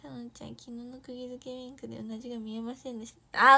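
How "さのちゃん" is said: ordinary talk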